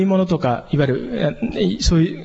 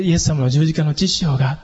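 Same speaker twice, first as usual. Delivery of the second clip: slow and quiet. Shown as a demonstration. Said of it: "ゆったりとこう、静かにお話ししたい".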